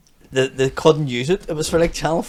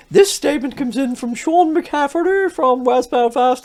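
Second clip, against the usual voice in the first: slow, high formal judge voice; judge reading out; 10 semitones higher, slower than usual. Retold or imitated. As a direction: read it out like a prim judge. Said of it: "it's like".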